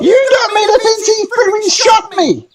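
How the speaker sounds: high, loud gnome giving orders; a tiny guardian of the grove commanding. Acted. Gnome retorts.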